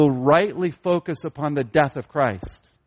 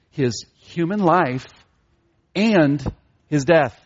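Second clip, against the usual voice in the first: "life" and "death" each weighted, paused round "and"; slow, separate weight on "life" and on "death"; stress on both parts; 2 semitones lower, slower than usual. Shown as a demonstration. Preacher explains what Jesus meant, stress on both "life" and "death". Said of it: "And he emphasized both".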